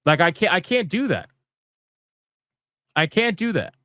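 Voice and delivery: a fan fed up and ranting; exasperated rant. Retold or imitated. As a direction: pitch up, incredulous griping. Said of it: "And I'm gonna be like".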